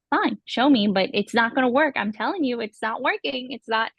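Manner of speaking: retold stubborn arguing; mock huff, insisting it won't work; frustrated kid. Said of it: "so mad and so frustrated".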